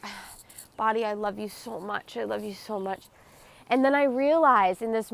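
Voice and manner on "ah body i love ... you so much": softly sighed, loving words to oneself; tender self-talk. Retold or imitated. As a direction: retell a tender, hushed moment of self-love. Retold loving words to own body while crying.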